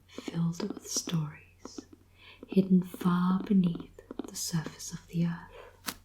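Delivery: reading the back cover in a whisper; whispered blurb reading. Acted. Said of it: "I'll read the back for you".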